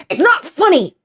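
imitating an angry outburst, pitched high; mock a fed-up moviegoer snapping; losing his cool. Retelling the man behind her at the movie, losing his cool. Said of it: "This guy loses his cool".

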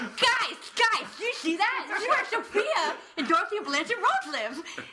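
high, loud, giddy with laughter; excited fan. Retold or imitated. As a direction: gush like a thrilled superfan. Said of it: "I was just like".

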